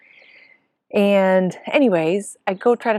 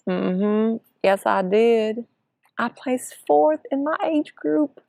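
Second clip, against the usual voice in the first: higher, insistent friend voice; a friend assuring her it's true; confirming friend; 5 semitones higher, slower than usual. Retold or imitated. Friend confirms she placed fourth, higher and insistent.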